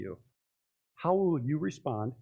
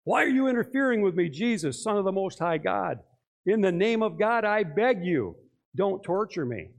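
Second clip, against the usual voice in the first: preacher's loud demoniac quote; 4 semitones higher, 3 dB louder than usual. Retold or imitated. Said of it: "he screams at the top of his lungs".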